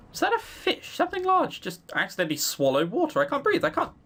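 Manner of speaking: high, panicked burst; panicking. Acted. Narrator choking underwater.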